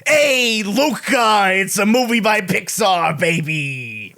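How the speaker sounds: mock celebrity shout; Martin Scorsese. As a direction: holler it like a hammed-up movie director. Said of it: "Martin Scorsese says".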